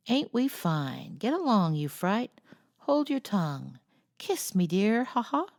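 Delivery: lightly squawked parrot mimicry; a hint of a parrot imitating a lady. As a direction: chirp it out like a cheeky parrot. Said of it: "imitating her as well as he could".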